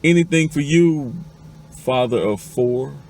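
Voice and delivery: loud, high retort at full voice; high, loud comeback, slowing on the last words; irritated yell back. Acted. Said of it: "yells back at the top of her voice".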